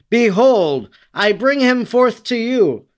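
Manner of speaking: lightly acted governor proclaiming from on high; public proclamation. A narrator's reading. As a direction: announce it to the assembled people, voice lifted. Pilate addresses priests and people.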